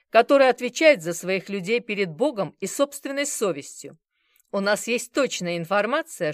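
loud, hard ultimatum, slowing on key lines. Acted. Bazarov giving the bar two minutes, loud threat. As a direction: lay down the terms with menace.

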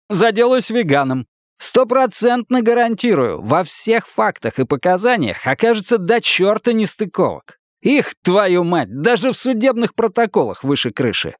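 brash ex-cop voice. Acted. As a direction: lean on him like an old buddy. Хардвик уговаривает Гурни. (напористый голос бывшего копа)

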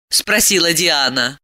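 usual speaking voice

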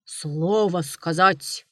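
low, slow bear rumble; lightly voiced bear growl; bear roar. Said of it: "ревнул медведь".

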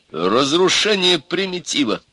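high, slow, firm statement; firm declaration. A narrator's reading. Devil naming his goal to the sage, firm. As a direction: state your aim resolutely. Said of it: "твёрдо сказал чёрт".

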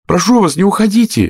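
pleading call; calling after. A narrator's reading. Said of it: "крикнула ей вслед Алиса".

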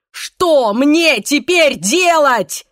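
desperate shout, high and loud. A narrator's reading. Pablo shaking Irene, desperate loud shout. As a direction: yell it at her in despair. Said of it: "закричал он".

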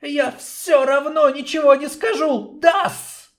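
high hissing snake, mocking laugh; insolent hiss. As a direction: sneer at the warrior like a snake. Snake king refuses to talk.

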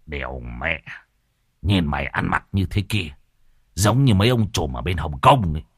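low, scoffing mockery with a snicker; mocking friend. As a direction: needle your mate with a crude jab. Môn Phọt mocking Lão Đồng.

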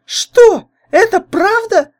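put-on very high, loud outraged girl; boiling over. A narrator's reading. Jealous girlfriend explodes at the comparison, very high and furious. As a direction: erupt in fury, shrill and loud. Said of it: "вскипела Лайда".

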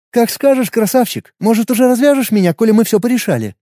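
put-on high playful girl voice, teasing. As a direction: tease him like a cheeky girl.

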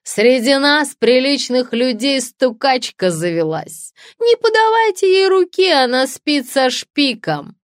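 high, loud, drawn-out public accusation; scandal-monger's acted shriek; shrieked denunciation. A narrator's reading. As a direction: cry it out to the whole café. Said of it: "закричала писательница".

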